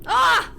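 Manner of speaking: sharp yelp of pain. Real, not acted. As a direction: yelp at the spice. Spicy noodle reaction shout.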